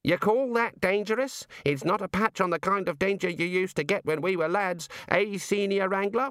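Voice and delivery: a hint of a hearty old don reminiscing; blustering old wizard. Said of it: "They say things like".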